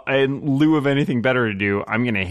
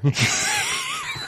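shrieking laugh; 4 dB quieter than usual. Real, not acted. Reaction to drowning joke.

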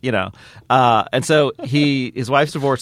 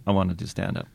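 Liam Neeson; 4 semitones lower, faster than usual. Retold or imitated. Actor corrects comedians about his stand-up ambition, solemn. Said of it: "he's always really serious".

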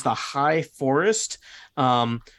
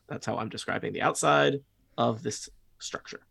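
whispered aside, softer than the description; 5 dB quieter than usual. Real, not acted. Game master steps out of the description to comment, whispering. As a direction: drop to a whisper to comment on your own description.

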